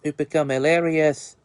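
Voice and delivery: a lightly put-on, bad Australian accent; hammed-up mock Australian with bloody and mates; bad fake Aussie accent. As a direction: fake an Australian accent, not too well. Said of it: "probably the worst fake Aussie accent".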